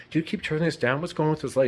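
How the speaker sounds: high-pitched, questioning wife voice; imitated puzzled wife. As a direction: play the wife querying, pitched well up. Acting the wife in film.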